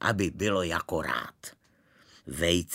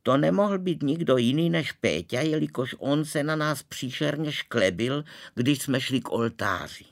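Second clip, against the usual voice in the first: accusing bride; 4 semitones higher, 3 dB louder than usual. Acted.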